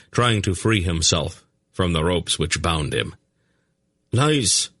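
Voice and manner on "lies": sharp high scream of denial; screaming prisoner. A narrator's reading. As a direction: shout it at them, high. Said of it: "he screamed at them".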